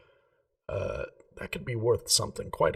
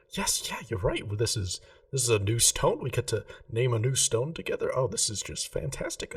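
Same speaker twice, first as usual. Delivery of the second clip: a lightly voiced, delighted jeweller; 3 semitones higher than usual. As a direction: gush a little over naming it together. Remy thrilled to name stone.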